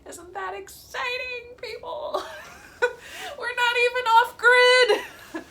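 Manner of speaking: high-pitched laughing sarcasm. Real, not acted. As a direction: laugh through the sarcastic words. Laughing at own no-internet situation.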